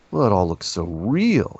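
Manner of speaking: mildly acted amazement, drawn out; amazed friend. Friend reacting to the film, amazed. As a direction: retell a friend's slow astonishment.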